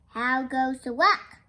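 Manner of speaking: mildly projected storybook call. Acted. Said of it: "called the farmer".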